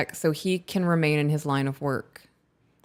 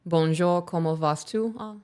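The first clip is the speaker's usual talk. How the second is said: French phrases. Shown as a demonstration. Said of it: "speak French".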